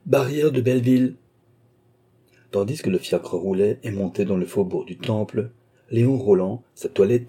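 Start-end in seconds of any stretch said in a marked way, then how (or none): 0.1-1.1 louder, higher call to the driver; a man shouting directions to his coachman. A narrator's reading. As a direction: call it out over the street noise. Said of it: "il cria au cocher".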